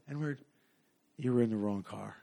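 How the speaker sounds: low, hushed dealer imitation; quiet retold menace. Dealer dismisses the stranger from the car, quiet mock menace. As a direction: say it low and soft, as an acted warning.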